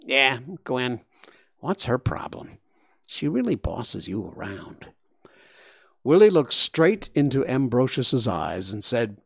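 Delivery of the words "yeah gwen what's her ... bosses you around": nasal warthog. Acted.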